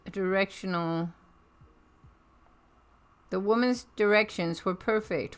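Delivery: ordinary delivery, nothing marked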